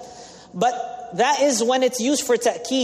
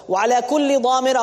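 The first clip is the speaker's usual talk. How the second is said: swift melodic recitation of the verse; rapid Quranic chant; 2 semitones higher, much faster than usual. Acted. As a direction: recite it in flowing Arabic.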